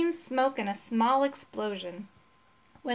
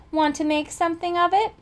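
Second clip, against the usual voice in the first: louder, higher cocky dare; defiant challenge; 7 semitones higher, 5 dB louder than usual. Acted. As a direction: pick a fight with the cat. Dragon challenges the cat.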